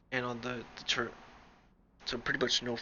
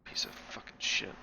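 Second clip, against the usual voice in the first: whispered swearing; 4 dB quieter than usual. Real, not acted. Frustrated mutter after losing.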